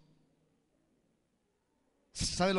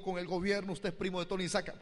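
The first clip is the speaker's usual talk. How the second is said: a higher, pleading mother's voice; 4 semitones higher than usual. Retold or imitated. Mother begging the pastor, higher and pleading. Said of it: "me dijo".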